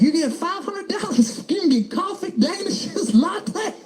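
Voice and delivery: high bright announcer sell; high-pitched mock arena announcer; hyped arena announcer. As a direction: pitch it like a jumbotron host. Announcer voice at Warriors game.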